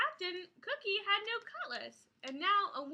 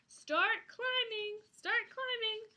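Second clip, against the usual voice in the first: higher, slow urgent command; urgent order; 6 semitones higher, slower than usual. Acted. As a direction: urge them to climb.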